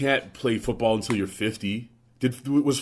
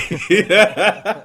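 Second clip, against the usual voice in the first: big burst of laughter; loud laugh; 8 semitones higher, 8 dB louder than usual. Real, not acted. Laughs at own sports joke.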